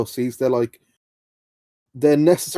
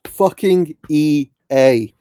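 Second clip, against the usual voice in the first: angry; 5 dB louder, much slower than usual. Real, not acted. Rant about EA.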